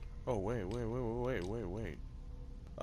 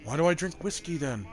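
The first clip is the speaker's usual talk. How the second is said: incredulous; 8 semitones higher, 6 dB louder than usual. Real, not acted. Mocking the character's line.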